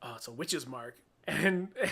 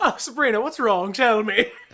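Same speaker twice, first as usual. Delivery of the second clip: super charismatic, sweet, raised, pitched-up devil voice; 6 semitones higher, 6 dB louder than usual. Imagining a stereotypical devil showing up: put-on charismatic devil voice. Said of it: "a stereotypical devil who just being like super charismatic and nice".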